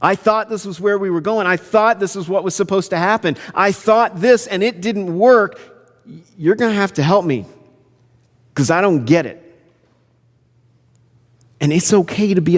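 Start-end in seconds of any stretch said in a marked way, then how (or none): 0.0-9.4 mildly exasperated, raised pitch; frustrated prayer. Acted. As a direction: admit confusion to God in mild frustration. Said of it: "be frustrated and say".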